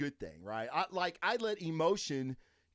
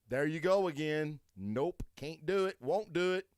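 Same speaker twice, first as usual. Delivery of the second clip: scornful retort; 2 semitones higher than usual. Retold or imitated. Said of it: "And I'm like".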